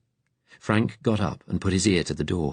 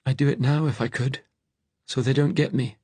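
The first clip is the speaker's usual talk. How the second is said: high, desperate fugitive; high-pitched desperation; Frank; 8 semitones higher than usual. A narrator's reading. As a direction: confess it in a high, anguished voice. Hunted Frank admits suicidal wish.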